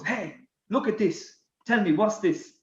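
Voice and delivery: mock French accent, slightly puzzled questioning. French teammate shows speaker a bill, puzzled French accent. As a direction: imitate a French teammate demanding an explanation. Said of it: "with his French accent".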